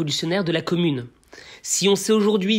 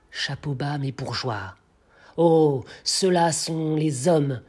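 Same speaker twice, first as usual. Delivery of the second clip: impassioned verse, measured, with swelling cries; poem recitation. Acted. The blacksmith addresses the doomed king, declamatory.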